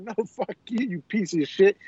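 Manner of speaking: amused re-enactment of going off; retold angry comeback. Prankster cursing back at scammer, half-laughing mock anger. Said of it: "we just went off".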